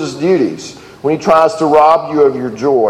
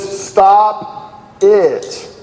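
drawn-out, higher-pitched mock yell; 4 semitones higher than usual. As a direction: stretch out each word of the comic order. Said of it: "and he yells".

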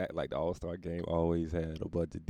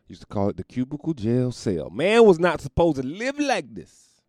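mock rant; 7 semitones higher, 10 dB louder than usual. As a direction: declare it like a grand lament. Ranting about desk job.

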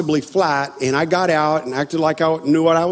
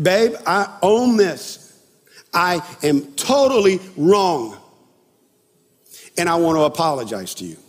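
retold apology. Husband apologizing to wife after the fight, retold apology. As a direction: re-enact a measured, earnest apology. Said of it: "break down and go tell her I'm sorry".

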